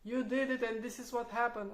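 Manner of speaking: reproachful. Retold or imitated. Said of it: "take it personally".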